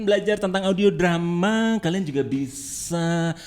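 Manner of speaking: sassy effeminate delivery; effeminate man voice. Shown as a demonstration. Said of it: "ngomongnya ala bencong".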